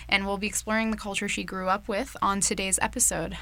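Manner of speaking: lively scripted show opening, punched at the start; radio host intro. Acted. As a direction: welcome the listeners like a campus radio host.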